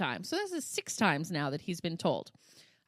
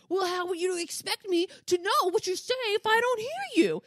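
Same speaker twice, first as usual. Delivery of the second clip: high, put-on child's whine; mock whining; 11 semitones higher, 4 dB louder than usual. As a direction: complain like a whiny kid mid-tantrum. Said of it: "with the loud whining".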